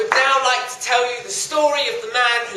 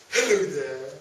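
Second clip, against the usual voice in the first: talking tree voice; 3 semitones higher, slower than usual. Acted. Talking tree introduces itself.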